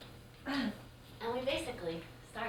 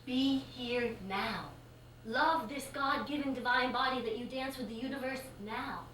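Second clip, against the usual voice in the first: calm yoga teacher; 3 semitones higher than usual. Acted. Teacher guides the client calmly.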